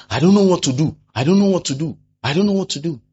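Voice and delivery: imitating a confused believer; mock helpless whine. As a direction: sound lost and confused.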